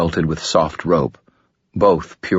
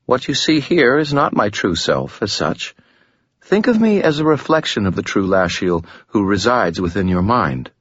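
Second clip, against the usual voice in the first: lightly voiced woman, higher, smooth and composed; a hint of a calm, alluring woman, higher; Lashiel, gracious demon; 4 semitones higher than usual.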